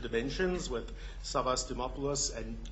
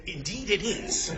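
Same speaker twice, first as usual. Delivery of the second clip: laughing quote; 7 semitones higher, slower than usual. Retold or imitated. Retelling a joke, laughing.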